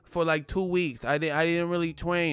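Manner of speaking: lightly voiced high Mike Tyson lisp; Mike Tyson impression. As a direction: play the boxer shrugging off training. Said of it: "He was like".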